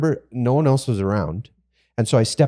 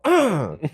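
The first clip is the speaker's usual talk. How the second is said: short, higher-pitched re-enacted grunt of pain; retold grunt; 7 semitones higher than usual. Carpenter retelling how he punched the beam, mock pained grunt. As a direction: imitate the grunt on hitting your finger. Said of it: "And I go".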